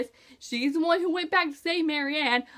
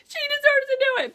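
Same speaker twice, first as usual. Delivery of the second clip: fervent; 13 semitones higher, faster than usual. Retold or imitated. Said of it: "'Cause I was like".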